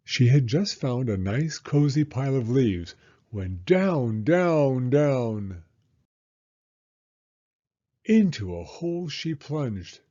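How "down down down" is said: each DOWN loud, long and falling; falling, drawn-out words. A narrator's reading. Narrator as Hedgehog plunges into the hole, long falling DOWNs. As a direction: draw out each down like a tumble.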